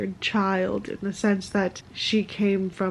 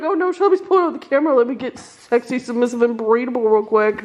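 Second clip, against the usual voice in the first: mock sexy pose; faster than usual. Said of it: "You're like".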